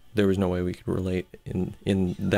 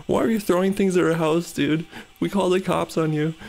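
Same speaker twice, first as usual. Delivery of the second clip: mock angry accusation; 9 semitones higher than usual. Joker guy confronting the stranger outside his house, mock angry accusation. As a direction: play the paranoid accuser, hammed-up. Partygoers accusing him of vandalism.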